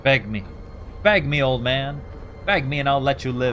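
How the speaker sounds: loud, taunting villain voice; menacing taunt. Pretend. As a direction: sneer it down at him. Player voicing Daniel to Alexander.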